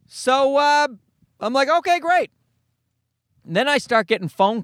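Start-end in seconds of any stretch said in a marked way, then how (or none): 1.7-2.3 sarcastic okay great. Retold or imitated. Sarcastic reaction to useless cops.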